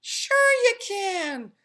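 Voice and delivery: high, slow sly coaxing; coaxing pigtail. A narrator's reading. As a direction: drawl it out to seduce him. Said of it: "said the pigtail".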